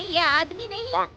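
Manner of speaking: mother insisting she wants a real bride, loud and high; indignant. Acted. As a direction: reject it firmly. Mother refusing the groom as bride.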